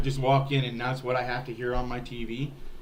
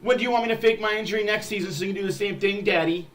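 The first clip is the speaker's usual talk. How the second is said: mocking, higher whiny player voice, rushed in the middle; 5 semitones higher, faster than usual. Fan mocks player whining to team, higher sneering voice. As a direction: sneer it as the faking player begging his boss.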